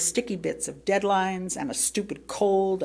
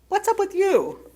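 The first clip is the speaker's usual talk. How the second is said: high, puzzled family voice; annoyed family member; 12 semitones higher, 4 dB louder than usual. Retold or imitated. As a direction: ask it like a fed-up relative. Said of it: "Family members began saying things like".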